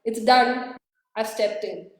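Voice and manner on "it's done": imitating Frances. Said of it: "Francis stepped up from that to say".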